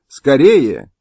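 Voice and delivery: loud hurry-up call; loud urgent command; urgent shout. Acted. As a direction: shout to the old man to hurry. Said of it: "крикнула ему пани Мыльская".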